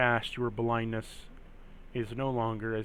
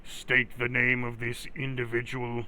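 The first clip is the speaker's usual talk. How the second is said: flat mechanical guard voice; clipped robot demand. Acted. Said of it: "that robot voice".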